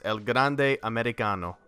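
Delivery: a light Italian lilt on the wrestler's name; Italian accent. Acted. Announcing the next match with a light Italian accent. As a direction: roll the name out with a hint of Italian. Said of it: "I don't know why I said that with a, with a Italian accent".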